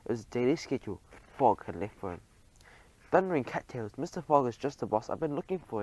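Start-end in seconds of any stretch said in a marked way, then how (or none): 3.1-5.8 higher, beaming exclamation; cried with a smile. Acted. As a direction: cheer it out, smiling. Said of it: "he cried with a smile".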